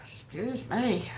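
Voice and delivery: soft whispered excuse me; whispered apology. Real, not acted. Host whispers sorry to chat after yawning. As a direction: whisper it, a little embarrassed.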